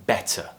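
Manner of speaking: "better" with a crisp true T; clear T. Shown as a demonstration. Teacher shows the RP way, "better" with clear T. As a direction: pronounce the T in "better" as a T, no flap. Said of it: "I'm pronouncing that T".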